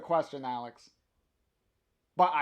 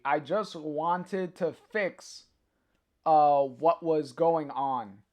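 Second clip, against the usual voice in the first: read tenderly; slower than usual. Acted. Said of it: "I am meant to kinda read this, uh, like this".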